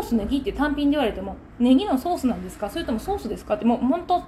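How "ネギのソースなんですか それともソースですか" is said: understated cool, businesslike question; cold customer service. Acted. Window seller questioning a curt, condescending customer, coldly. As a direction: ask it coolly, without deference. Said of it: "冷たい感じで話をします".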